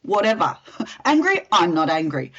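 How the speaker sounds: lightly acted passive-aggressive brush-off; mildly hammed-up passive-aggressive replies; passive-aggressive denial. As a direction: insist nothing's wrong, with a mock huff. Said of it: "Passive aggressive, let's face it, hardest to deal with".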